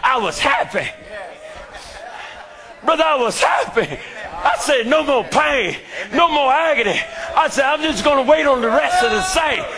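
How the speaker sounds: full-force preaching. Acted. Preacher testifying to his church in full-force sermon cadence. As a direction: preach it like the climax of a revival.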